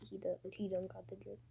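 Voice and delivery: whispered quote, very soft; whispering. Retold or imitated. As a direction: whisper it under your breath. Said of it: "Tim just say".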